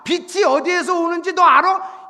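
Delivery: loud, high volley of questions; God cornering someone with challenges; relentless interrogation. Acted. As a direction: drive each question at the listener. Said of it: "갑자기 욥한테 막 질문으로".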